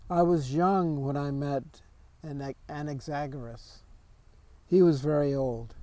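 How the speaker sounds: deliberate poem recital with pauses between phrases; poetry reading. Acted. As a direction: read the verse out in measured phrases. Reads second poem aloud.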